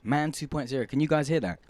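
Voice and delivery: talking while chewing gum. Real, not acted. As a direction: say it round the gum. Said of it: "chewing gum in my mouth".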